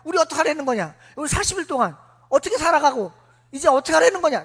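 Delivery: mild mock crowd uproar; agitated crowd. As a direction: clamour like an anxious mob. Crowd clamouring at Aaron.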